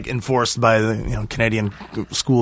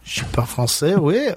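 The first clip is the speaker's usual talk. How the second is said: French accent with a high oui; 3 semitones higher than usual. Shown as a demonstration. Echoing friend's French back, in a French accent. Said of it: "how's the French accent over there".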